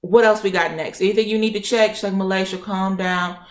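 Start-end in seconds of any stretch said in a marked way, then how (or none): 0.0-1.9 retold impatient challenge, pitch rising; pissed off. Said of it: "I'm pissed". 2.1-3.4 retold slow, drawn-out plea; calming order. Doctor tells her to calm down.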